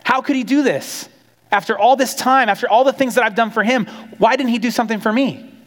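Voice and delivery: sulking sibling airing his grievance; frustrated older brother. Retold or imitated. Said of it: "he was angry, he was frustrated".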